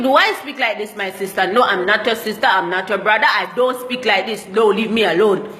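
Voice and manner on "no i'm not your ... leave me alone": usual speaking voice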